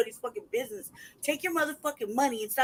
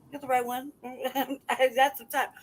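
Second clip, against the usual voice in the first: laughing. Real, not acted. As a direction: chuckle the words out at half speed. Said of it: "repeats the boast, laughing".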